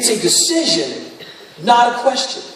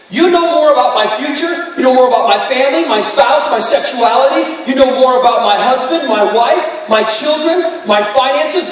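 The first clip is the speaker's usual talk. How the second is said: prayed aloud. Pretend. Voicing a morning prayer to God.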